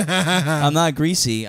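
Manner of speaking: slow, laughing denial. Real, not acted. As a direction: protest while laughing. Laughing self-defence.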